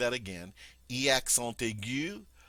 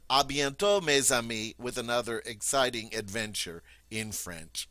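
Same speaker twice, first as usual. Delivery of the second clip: cheerful farewell; 7 dB louder than usual. Acted.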